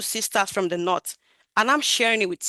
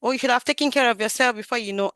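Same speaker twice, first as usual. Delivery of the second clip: scolding tone; faster than usual. Shown as a demonstration. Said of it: "That, not that".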